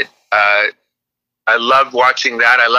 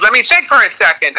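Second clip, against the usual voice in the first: high-pitched imitation of an exasperated mom; mom's retort; 10 semitones higher than usual. Comic retells mom stalling on the phone, irritated mom voice. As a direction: raise it into a mock-irritated mother's voice.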